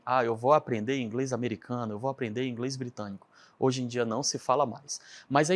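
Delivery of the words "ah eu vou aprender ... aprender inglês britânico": rattled off quickly, fading softer; quick throwaway quote of a learner; fast mock quote. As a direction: toss it off fast as a cliché. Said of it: "não se fala mais em".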